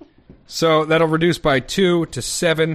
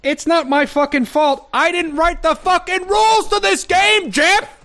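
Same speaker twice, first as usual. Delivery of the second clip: much higher, louder mock rage; hammy stage actor; 5 dB louder than usual. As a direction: rant it like a ham on stage. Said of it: "You guys are hamming it up".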